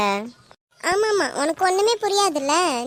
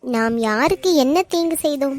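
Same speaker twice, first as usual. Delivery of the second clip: mock-tragic line, pitched lower; theatrical, lower-pitched lament; play-acting; 4 semitones lower than usual. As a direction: put on an innocent act. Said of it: "நடிச்சிடுவா".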